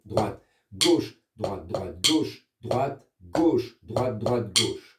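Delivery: words spaced on the drum beats; rhythmic sticking demo. Shown as a demonstration. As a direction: GAUCHE brought out, DROITE DROITE lighter, in steady time. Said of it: "avec juste le changement de son".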